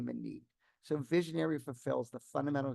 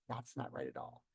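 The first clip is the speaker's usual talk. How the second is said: much softer echo of retold criticism; reverberating inner echo; 2 semitones lower, 9 dB quieter than usual. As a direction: replay it quietly, as if inside your head. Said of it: "reverberated inside of me".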